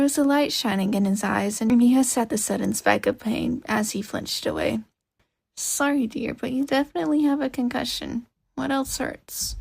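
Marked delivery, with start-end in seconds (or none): 5.6-9.6 put-on a lightly higher, caring old lady's voice; kindly granny. Old lady coaxing the hurt boy to stay awake, lightly voiced and caring. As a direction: fuss over him like a gentle grandma. Granny examines his injuries.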